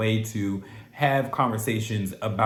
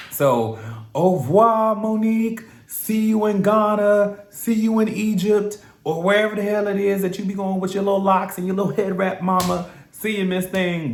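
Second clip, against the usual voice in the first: high, loud sassy send-off; mocking farewell; 7 semitones higher, 5 dB louder than usual. Real, not acted. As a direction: wave her off with exaggerated sass. Mocking farewell to departed cast member.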